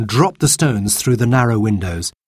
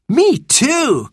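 put-on high, excited little girl; bright-eyed child's high exclamation; eager cry. A narrator's reading. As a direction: chime in eagerly. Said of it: "cried Jane".

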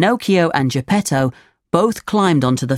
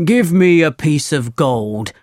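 lightly voiced demanding farmer. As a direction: set terms as a hard-bargaining farmer.

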